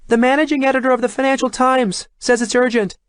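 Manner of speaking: high, far-off voice down the hall; muffled from far away. A narrator's reading. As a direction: call from another room. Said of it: "came a muffled reply from the hallway".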